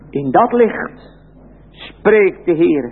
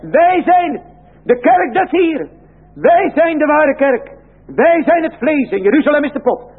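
high, proud mocking voice of the boasters; boastful covenant people; 9 semitones higher than usual. Preacher mocking the boasting church people, high and proud. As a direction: lift the voice high in smug self-praise.

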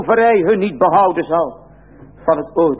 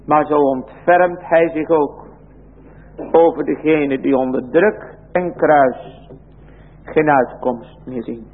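tender mercy; 4 semitones lower than usual. Real, not acted. Preacher softens on God's mercy.

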